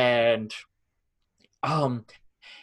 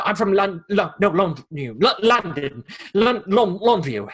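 imitating a flustered stammer, a bit higher and louder; mock nervous stumbling over the town name; retold panicky stutter as the lie falls apart; stuttery, jittery; 6 semitones higher, 5 dB louder than usual. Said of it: "he was just getting all stuttery and all jittery".

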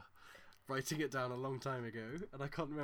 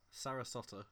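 English accent; 3 semitones lower, 4 dB quieter than usual. Shown as a demonstration. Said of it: "Whereas in England, I'll just say".

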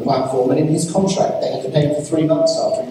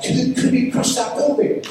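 lightly voiced curious child, pitched higher; child's wonder; 9 semitones higher than usual. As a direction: ask it high, like an amazed little boy. Acting out his small son's questions.

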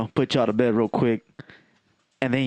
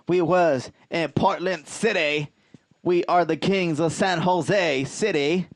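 heroic rallying shout; 4 semitones higher than usual. Acted. Hype roll call of cities.

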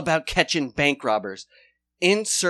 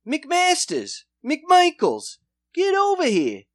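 much higher, loud hammed-up cop calling out; barking Commish; 10 semitones higher, 4 dB louder than usual. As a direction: summon your lazy officers. Commish calling officers over.

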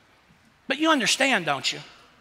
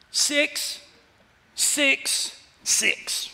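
eerie whisper; 6 semitones higher, much slower than usual. Acted. Echoing the ominous number.

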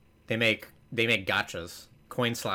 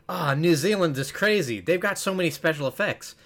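higher, lively commercial testimonial; Bryce Dallas Howard; 6 semitones higher, 3 dB louder than usual. Retold or imitated. Actress praising New Zealand in a commercial, higher gushing voice. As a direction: gush lightly, pitched up. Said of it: "And then she's like".

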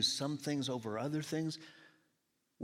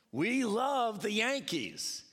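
fan enthusiasm; 7 semitones higher, 3 dB louder, much slower than usual. Retold or imitated. Acting out Yankees fans.

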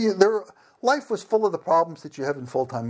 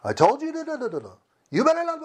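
higher, mock stern scolding; mock angry Russian; 13 semitones higher, faster than usual. Shown as a demonstration. Missionary mimics how Russians sound when angry, mock stern. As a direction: play-act an angry Russian telling someone off. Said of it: "how we talk when we're angry".

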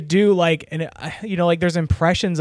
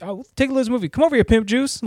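higher-pitched mock customer voice; imitating a customer; 8 semitones higher, faster than usual. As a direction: call him over, as that customer did. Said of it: "he said, like ... like that".

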